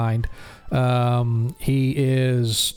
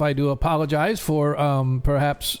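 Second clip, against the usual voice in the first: barkeep apology; 3 semitones higher than usual. Acted.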